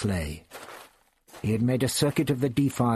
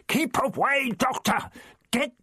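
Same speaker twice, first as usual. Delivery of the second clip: higher, urgent shouted warning; shouting; 11 semitones higher than usual. Acted. Ian caught in the web shouting the Doctor away, urgent. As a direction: warn him off, urgently. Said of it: "His further shouts".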